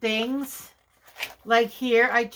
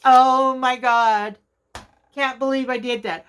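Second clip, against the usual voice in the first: real dismay; 6 dB louder than usual. Real, not acted. Crafter who can't believe she did that, loud dismay. Realizes her own mistake.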